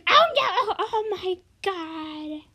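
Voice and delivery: high loud cry of alarm; alarmed shout. Real, not acted. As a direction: cry out in shock. Sudden alarm in game.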